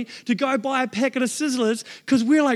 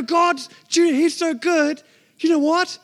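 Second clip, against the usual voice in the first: higher, laughing reply; amused delight; 6 semitones higher than usual. Retold or imitated. Father answering his son, laughing and higher. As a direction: chuckle through it, delighted.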